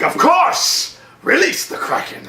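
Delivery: high, hushed grand command; mock Kraken line. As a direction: spin round and intone it. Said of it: "He's like".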